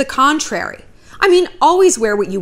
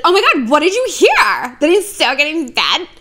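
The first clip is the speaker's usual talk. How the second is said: mock panic; 5 semitones higher, 3 dB louder than usual. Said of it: "I wanted to be like".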